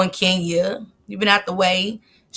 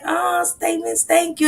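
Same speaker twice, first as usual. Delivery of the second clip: excited thanks; 10 semitones higher than usual. Retold or imitated. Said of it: "super excited".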